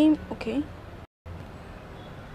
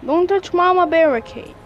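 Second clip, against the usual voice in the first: yelling at the screen; 3 semitones higher, 4 dB louder than usual. Real, not acted. Yelling at game enemies.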